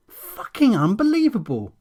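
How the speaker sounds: sharp, high, disbelieving curse; cold incredulous scorn; incredulous contempt. Acted. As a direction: spit it out in disgust. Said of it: "incredulous dagger with barely disguised contempt".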